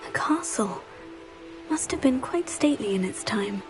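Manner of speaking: whisper. Acted. Character whispering aside.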